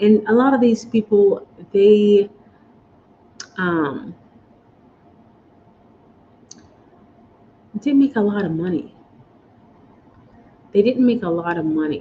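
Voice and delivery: emotional, choked-up, fighting back tears. Talking live to an audience, suddenly emotional and choking up. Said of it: "I don't know why I'm so emotional".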